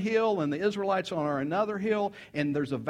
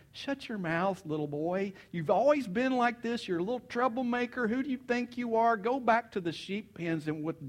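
higher-pitched acted telling-off; scolding older brother; 5 semitones higher than usual. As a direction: scold a kid brother, lightly hammed-up. Older brother scolding little David.

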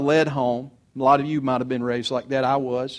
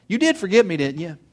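laughing; 3 semitones higher than usual. Real, not acted. Laughing about calling mom.

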